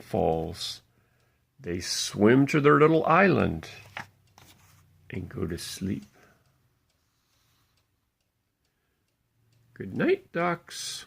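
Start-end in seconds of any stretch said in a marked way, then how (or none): 5.1-11.0 much softer, lulling goodnight; bedtime hush. Acted. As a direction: wind down gently for sleep. Bedtime ending of story.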